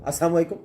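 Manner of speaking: salaam clipped to "as-saam", dropping the "la" in "السلام"; swallowed salaam. Retold or imitated. Anchor showing people's wrong greeting, "السلام" missing its middle syllable. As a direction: say "السلام علیکم" slurred as "assaam alekum". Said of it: "وہ السلام علیکم ہی کہتے ہیں".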